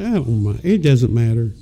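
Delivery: low, shrugging "it doesn't matter"; lightly imitating a shrugging girlfriend; indifferent girlfriend.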